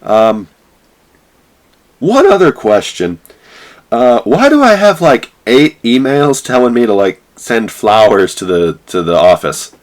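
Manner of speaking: baffled about the emails; mock naive chirp; high clueless friend. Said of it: "And he's like".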